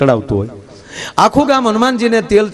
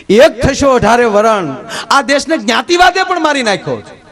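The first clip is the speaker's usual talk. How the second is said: rising sermon; 6 semitones higher than usual. Acted. Preacher urging the gathered community to unite, impassioned. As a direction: rouse the crowd, voice climbing.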